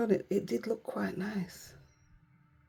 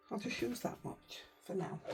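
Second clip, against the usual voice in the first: breathy aside to herself; whispering; 10 dB quieter than usual. Real, not acted. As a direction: say it almost soundless. Aside while painting.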